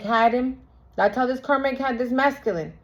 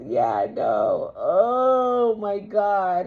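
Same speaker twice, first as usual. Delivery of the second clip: still laughing; much slower than usual. Real, not acted. Laughing after her mock sob.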